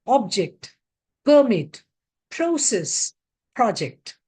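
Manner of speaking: produce, absent, permit, project, each stressed on its first syllable. Shown as a demonstration. Teacher reading the first column, stress on the first syllable. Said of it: "stress on the first syllable".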